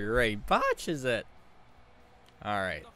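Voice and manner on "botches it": loud, raised-pitch play-by-play catchphrase; punchy mock commentator call; echoing the commentator. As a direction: lightly mimic an excited sportscaster. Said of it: "he does botch it, Beezer".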